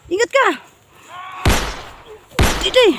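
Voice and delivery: high, loud urgent yelling; while running. Real, not acted. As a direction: yell at a partner to run for it. Fleeing enemies, urging partner to run.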